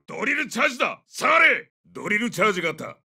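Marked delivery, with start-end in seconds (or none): 0.1-1.7 high shout to back off; urgent warning. Acted. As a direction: drive the squad back from danger. Warning squad of drill charge. (危険を知らせる叫び)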